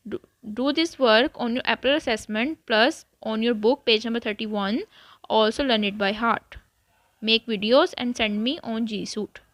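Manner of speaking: slow, deliberate classroom instructions. Acted. Teacher telling students their homework, slow and deliberate. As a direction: lay out the homework one step at a time.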